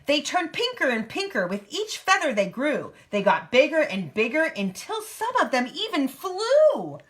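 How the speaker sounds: lively picture-book narration; reading to a child. A narrator's reading. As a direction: read it out in a clear storybook lilt.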